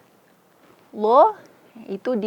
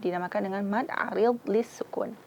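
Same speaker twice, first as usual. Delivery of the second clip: whispered; 6 dB quieter than usual. Real, not acted. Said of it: "whisper heard".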